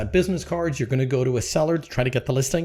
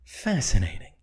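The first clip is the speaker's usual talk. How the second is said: lightly voiced cool Vulcan; a hint of calm detachment; deadpan Spock; 3 semitones lower, 3 dB quieter than usual. Spock answering Kirk, lightly cool and detached. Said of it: "He looked at him and went".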